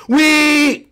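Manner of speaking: high, drawn-out squeal of glee; gleeful whee. Acted. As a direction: squeal it like riding a slide. Riding a toy off a height.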